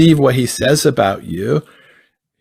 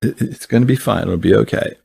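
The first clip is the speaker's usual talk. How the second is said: hushed tender promise, softer and calm; gentle reassurance; 3 semitones lower, 3 dB quieter than usual. Retold or imitated. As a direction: lean in and soothe gently. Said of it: "That's how he talks all the time".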